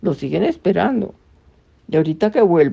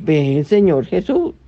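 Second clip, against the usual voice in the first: prayerful. Shown as a demonstration. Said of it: "¿qué es lo que uno dice?".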